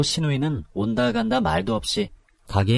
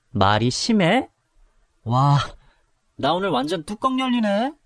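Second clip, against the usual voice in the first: much higher, blowing her lid; fuming; 11 semitones higher than usual. Acted. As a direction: boil over with rage. She explodes in rage. (폭발하는 분노)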